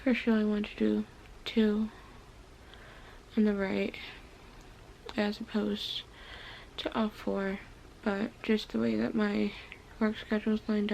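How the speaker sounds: talking around gauze, mouth barely open. Real, not acted. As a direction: speak through a mouthful of gauze. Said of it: "I have gauze in my mouth".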